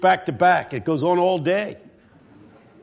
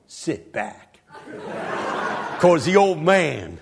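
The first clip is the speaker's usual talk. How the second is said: put-on low, quiet, unhurried old preacher; retold old pastor; 7 semitones lower, 4 dB quieter, slower than usual. Old pastor tells the young preacher to sit back, low and slow. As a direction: imitate a pastor calmly putting the youngster in his place. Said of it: "He said, "Son, son, sit back".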